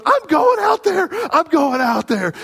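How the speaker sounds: put-on high, loud, stubborn child's voice; defiant little girl. Youngest daughter vowing to go back in, high and loud. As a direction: play the small daughter refusing to give up. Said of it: "and she goes".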